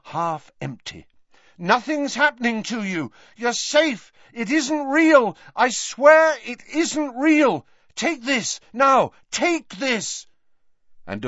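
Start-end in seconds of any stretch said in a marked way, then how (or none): 1.6-10.3 desperate soothing. Acted. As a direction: swear it to him, urgently. Harry desperately soothing Dumbledore.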